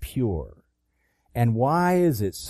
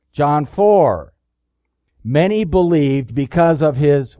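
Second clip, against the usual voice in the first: louder, higher preacher's reading; raised voice, driving through the verse; emphatic scripture reading; 4 semitones higher, 5 dB louder than usual. Acted. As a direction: proclaim the verse to the congregation. Reads verses with preaching force.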